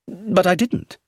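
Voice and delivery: high, sharp protest of surprise; accused man exclaims in surprised denial; exclaiming. A narrator's reading. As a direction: blurt out the denial, caught off guard. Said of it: "he exclaimed".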